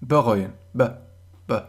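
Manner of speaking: ب said soft and unstressed as a schwa. Shown as a demonstration. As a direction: say ب lightly, no push. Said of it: "نرمتر".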